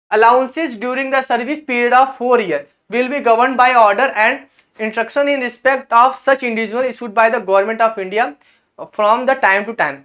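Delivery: slow, word-by-word document reading; reading out official text. Acted. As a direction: read the rule aloud at a slow, careful pace. Reads official English text aloud.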